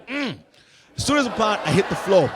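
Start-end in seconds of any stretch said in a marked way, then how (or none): 0.1-0.4 pouting grunt. Acted. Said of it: "So I pout".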